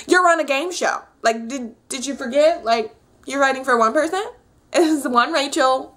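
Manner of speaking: annoyed scolding. Retold or imitated. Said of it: "I just get so annoyed".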